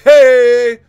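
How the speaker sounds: high, very loud yelp of hey; mocking coach's shout. Mimicking the coach shouting at every jab. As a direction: yell hey like the annoying cornerman. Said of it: "he'll be like".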